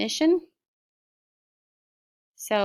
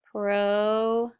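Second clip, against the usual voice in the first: "proceed" stretched into pro... ceed; "proceed" slow, in two held parts; sounded out. Shown as a demonstration. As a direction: sound out "proceed" with a gap between syllables. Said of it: "sound it with me".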